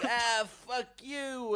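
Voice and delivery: high, loud, drawn-out insult; mock outraged yell. Taxi driver swears at a would-be passenger, mock outraged yell. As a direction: stretch it into a hammed-up yell. Insult acted again, escalated.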